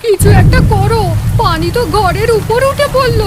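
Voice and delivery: 1 panicked plea. Acted. Wife panics as water rises.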